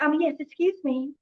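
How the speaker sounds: put-on light, softened white-girl phone voice. Caller disguising herself to customer service, lightly put-on white girl voice. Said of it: "you didn't have your white girl voice on?".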